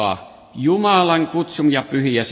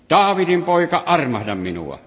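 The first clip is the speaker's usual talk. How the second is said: a bit louder plea; 3 semitones higher than usual. Retold or imitated. Blind beggar calling to Jesus, louder plea. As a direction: cry out a little louder, pleading. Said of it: "huusi entistä kovemmin".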